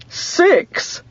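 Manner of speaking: a high excited cry; high delighted cry of surprise; cried out. A narrator's reading. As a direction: blurt it out in delight. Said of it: "cried Miss Hartshorn".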